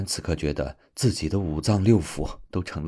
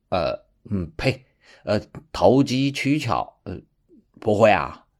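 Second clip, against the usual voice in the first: aggrieved scolding; 5 semitones higher than usual. Acted. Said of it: "委屈地说道".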